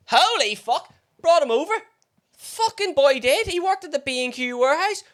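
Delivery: half-mocking gasp at the news; retold shock.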